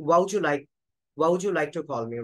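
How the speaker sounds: "What would you" linked as "wa woujou"; t dropped in what. Shown as a demonstration. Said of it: "ওয়াটকে বলবো ওয়া".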